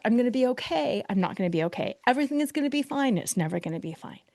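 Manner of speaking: up and down, quick mood flips; roller coaster swings. Retold or imitated. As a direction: swing each line between hope and despair. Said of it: "This is that roller coaster".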